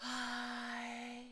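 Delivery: breathy steady "hi". Showing a learner a vocal exercise: breathy steady "hi". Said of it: "very steady".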